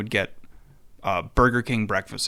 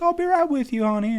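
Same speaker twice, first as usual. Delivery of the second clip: high, sweet waitress voice; 14 semitones higher, faster than usual. Retold or imitated. The waitress tells the boys to wait, high and sweet. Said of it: "She'd be like".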